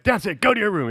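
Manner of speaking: high, loud mock order; imitated scolding mom. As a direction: send the kid off in a loud mom voice. Acting out mom's punishment.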